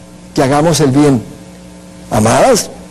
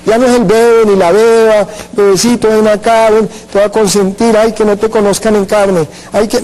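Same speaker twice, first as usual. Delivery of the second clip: mock baby talk; 3 semitones higher than usual. Preacher mocks God coddling a baby believer, cooing. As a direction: coo like someone spoiling a baby.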